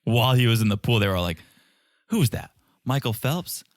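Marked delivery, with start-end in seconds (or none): 2.1-3.6 lightly mocking friends' questions; imitated heckling. Friends heckling him in the pool, lightly mocking. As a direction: heckle him with mock puzzlement. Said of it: "all of his friends were heckling him".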